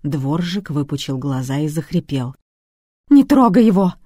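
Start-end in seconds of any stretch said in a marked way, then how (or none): 3.1-3.9 much higher, much louder scream; screaming plea. A narrator's reading. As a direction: scream to stop him. Wife screams at Babkin. (жена кричит, чтобы не трогали мужа)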